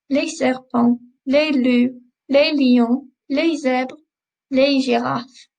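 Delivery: les serpents, les loups, les lions, les zèbres, les girafes with no S sounded at the end; silent final S. Shown as a demonstration. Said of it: "We don't pronounce the S's on the end".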